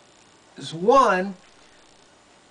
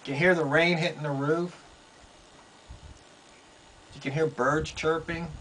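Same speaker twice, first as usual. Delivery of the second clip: softer, lower, as if listening out; hushed; 3 semitones lower, 6 dB quieter, faster than usual. Real, not acted. Host describing how quiet it is up here, hushed. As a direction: drop low and soft to show the stillness.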